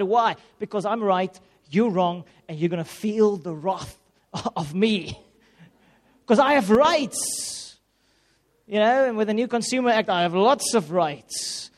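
playing the indignant customer with rights; hammed-up self-righteousness; mock righteous indignation.

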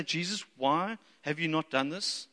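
slow, mildly whining complaint; mock whinge. Preacher acts out complaining to Jesus, mock whinge. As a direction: draw out a mild whinge at Jesus. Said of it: "have a real whinge and whine".

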